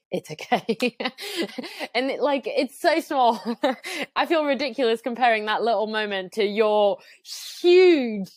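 laughing through welling tears; getting emotional. Real, not acted. Mother recalling stranger's kindness on podcast, real tearful laugh. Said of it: "Oh, I'm getting emotional".

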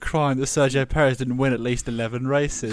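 mock-scandalised protest; sarcastic outrage. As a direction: feign outrage at a supposed failing. Mock outrage at rival's point.

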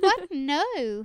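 high, loud mock shock close to tears; a wife hearing herself blamed for everything; shocked disbelief. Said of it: "And she's like".

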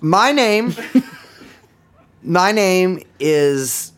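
slow, laughing showman clown. Pretend. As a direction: announce yourself like a sad clown. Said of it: "clown joker episode".

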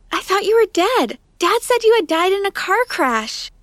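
unload on her in anger; ranting. Acted. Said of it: "I started ranting at her".

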